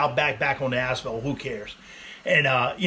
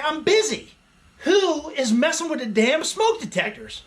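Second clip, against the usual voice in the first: mock annoyed; 9 semitones higher than usual. Annoyed outburst retold.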